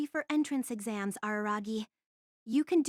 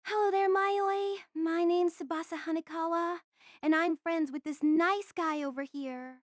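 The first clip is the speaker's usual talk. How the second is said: put-on kids show host. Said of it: "The public T V children's show voice came natural to her".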